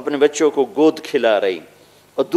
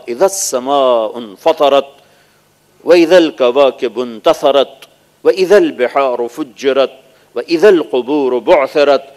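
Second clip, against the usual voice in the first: slow chanted Arabic recitation; Quran recitation; 3 dB louder, slower than usual. Acted. Preacher recites verses of the earthquake, slow chant. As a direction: intone each verse slowly.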